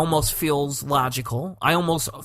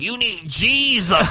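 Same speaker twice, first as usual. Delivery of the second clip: drawn-out, rising mock wail; loud, slow nightmare-ghoul imitation; skeleton grandma's voice; 7 semitones higher, 4 dB louder, slower than usual. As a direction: stretch it out like a haunting skeleton. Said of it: "comes and talks to me and is like".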